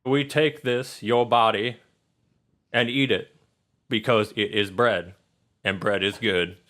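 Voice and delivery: measured grace with pauses between phrases; phrase by phrase, like grace at dinner; table prayer. Acted. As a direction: say an earnest mock blessing over the bread. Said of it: "He says".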